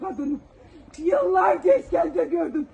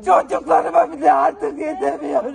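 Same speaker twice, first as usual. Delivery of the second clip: distraught; 3 semitones lower, 4 dB louder than usual. Real, not acted. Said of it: "Mehtap kurban olayım sakin ol".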